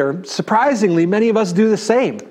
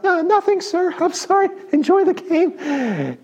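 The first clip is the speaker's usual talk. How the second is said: much higher, scared little squeaky voice; high-pitched squeak; 10 semitones higher than usual. Retold or imitated. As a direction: squeak it out, high and timid, backing down fast. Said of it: "my high-pitched voice came back out".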